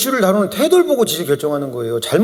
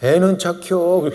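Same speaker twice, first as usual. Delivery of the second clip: slow Chungcheong understatement; drawn-out, deadpan Chungcheong verdict; Chungcheong dialect; much slower than usual. Retold or imitated. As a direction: imitate a Chungcheong local, taking your time. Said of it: "충청도에서".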